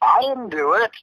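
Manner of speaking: very high mock-innocent child; little kid's voice. Prankster denying it to his friend, mock little-kid voice. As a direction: put on a squeaky kid protesting innocence. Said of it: "He could do a little kid's voice".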